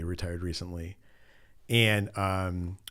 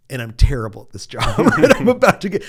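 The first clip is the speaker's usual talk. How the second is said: laughing; 4 semitones higher, 12 dB louder than usual. Retold or imitated. Confession in retold quote.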